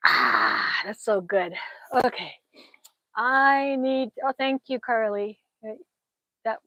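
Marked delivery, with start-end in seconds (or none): 0.1-0.8 loud breathy "ahh"; satisfied sigh. Real, not acted. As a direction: exhale with relish after a drink. Relishing a cold drink.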